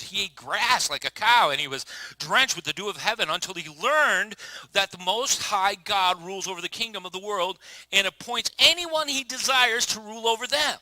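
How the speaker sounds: building preach. Real, not acted. Preaching the verse with force.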